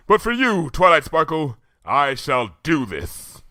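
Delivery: high then very slow, resolute; Luna's solemn vow. A narrator's reading. Luna promising Twilight, solemn. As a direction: steel herself for the sake of a friend.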